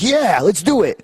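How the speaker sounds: high put-on eager voice; mock eager Scotty. Scotty agreeing to the finish, high put-on voice. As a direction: sell it with bravado.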